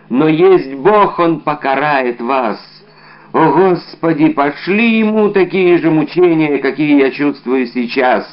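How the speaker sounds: выше и громче, медленно взывая к Богу; призвать Божью кару на обидчика; проклятие умирающего. Acted. (умирающий солдат призывает Бога покарать Д'Артаньяна)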